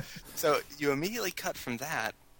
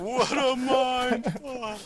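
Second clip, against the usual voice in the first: stunned exclamation; 13 semitones higher, 5 dB louder, much slower than usual. Retold or imitated. Echoing the movie's final line.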